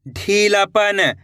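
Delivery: ढीलापन drawn out slowly; slow reading. Shown as a demonstration. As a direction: read ढीलापन slowly for learners. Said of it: "कैसे पढ़ेंगे?". (ढीलापन धीरे पढ़ना)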